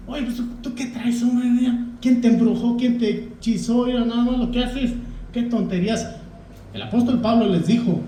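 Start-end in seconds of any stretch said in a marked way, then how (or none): 0.1-6.1 teasing joke. Retold or imitated. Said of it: "vacilando uno dice".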